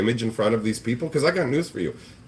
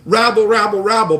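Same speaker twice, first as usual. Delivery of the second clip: mock crowd grumble; 7 semitones higher, 6 dB louder than usual. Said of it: "everyone to go".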